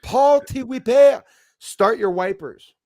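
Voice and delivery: incomprehensible Quebec French. Retold or imitated. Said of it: "couldn't understand what the hell".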